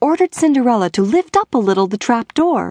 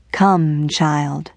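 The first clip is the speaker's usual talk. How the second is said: fairy godmother; 6 semitones lower than usual. A narrator's reading. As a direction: coax her like a kindly godmother. Godmother voiced in fairy tale.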